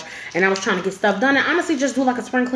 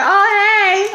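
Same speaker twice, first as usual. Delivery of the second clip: startled hey; 9 semitones higher, 5 dB louder than usual. Retold or imitated. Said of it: "So mommy was like".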